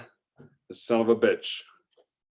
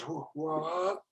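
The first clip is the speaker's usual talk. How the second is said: high, quick hooting war cry; yelping pirate charge call; battle cry; 7 semitones higher, 9 dB quieter than usual. Acted.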